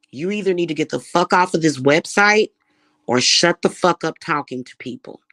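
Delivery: loud angry telling-off; furious. Real, not acted. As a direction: snap it at the harassers. Furious demand to harassers.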